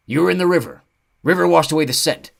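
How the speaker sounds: high loud odd centaur; curious, sniffing him out; creature voice. Acted.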